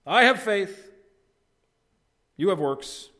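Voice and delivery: "I" hit high and loud in "I have faith"; loud quoted claim leaning hard on "I"; misplaced emphasis. Retold or imitated. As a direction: punch the "I", then ease a little on "You have works". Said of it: "put the emphasis on the wrong syllable".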